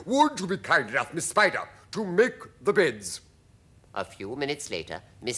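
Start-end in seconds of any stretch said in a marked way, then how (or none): 0.1-3.2 high, loud centipede request; showy, raised creature voice. A narrator's reading. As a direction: call out grandly as a centipede. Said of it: "the centipede cried".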